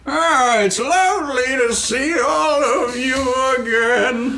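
very high, singsong little voice; bottled character's greeting. Acted. Stimley in his bottle greeting returning adventurers, high and singsong. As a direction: squeak out a delighted welcome.

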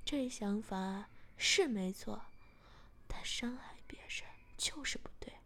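mildly annoyed scolding; a touch of anger, measured and stern; a bit angry. Acted. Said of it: "我有点生气地说".

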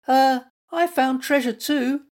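high, eager squeak; squeaky little animal. A narrator's reading. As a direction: pipe up proudly. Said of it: "squeaked Little Mutt".

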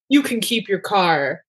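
slow, lightly voiced Dom impression; a half-hearted stab at Dom's gruff calm; bad Dom Toretto accent. Podcast host quoting Dom's line in a mild Dom voice. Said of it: "sorry, that was my bad Dom Toretto accent".

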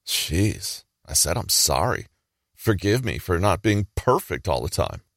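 grudging mock apology with a barb; apologize, but leave a sting in the tail. Passive-aggressive friend apologizing when pushed, with a sting. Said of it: "it will be an apology with a sting in the tail".

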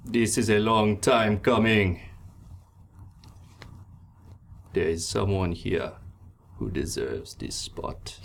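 captain rewarding his loyal mate; proud pirate captain. Acted. Gale honors Riley.

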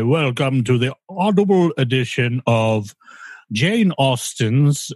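slow, grand audiobook reading voice; highfalutin narrator. Retold or imitated. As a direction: read it like a posh narrator. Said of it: "That highfalutin, like, I'm reading a book language".

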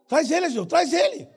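loud, rising call; calling out orders. Acted. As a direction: urge the helper on from afar. Calling to volunteer to bring blind man.

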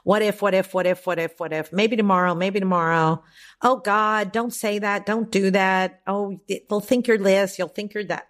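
lightly voiced nervous worrier; fearful chicken voice. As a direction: fret and dither like a scared inner voice. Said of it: "the voice of the chicken".

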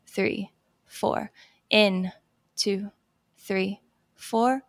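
calm, paced breathing coach count; guided breathing count. Shown as a demonstration. Coach guiding a listener through box breathing, calm count. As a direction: count them slowly through each breath.

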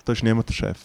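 lightly imitated Bernese stage manager; imitated Bernese German. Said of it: "einfach auf Berndeutsch, das kann ich nicht so gut nachmachen".

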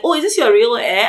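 lightly imitated curiosity; mildly curious coworker. Workmates asking about her locks, mildly curious. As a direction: ask with a touch of mock wonder.

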